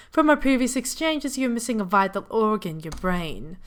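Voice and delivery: put-on a botched British accent that slips away; garbled attempt at a British accent; failed British accent. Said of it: "That wasn't a British accent. I don't know what that was".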